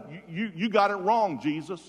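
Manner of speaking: loud, high, stammered objection; vehement contradiction. Retold or imitated. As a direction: argue back toe-to-toe, easing on the name. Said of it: "he went toe-to-toe with the Son of God".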